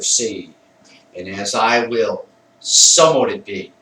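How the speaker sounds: measured, commanding ritual verse; emphatic incantation. Shown as a demonstration. Banishing spirits while charging the circle with fire, emphatic incantation. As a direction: pronounce the charge firmly, landing hard on the last phrase. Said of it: "I say it with emphasis".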